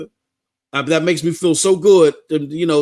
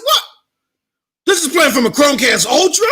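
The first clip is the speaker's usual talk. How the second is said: stunned disbelief; 9 semitones higher than usual. Retold or imitated. Brother discovers the Chromecast.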